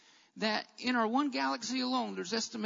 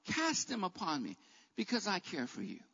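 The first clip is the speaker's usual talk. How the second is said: lower, gentle divine reassurance; tender invitation; 5 semitones lower, 5 dB quieter than usual. Retold or imitated. Preacher speaking as God to the burdened, gently reassuring.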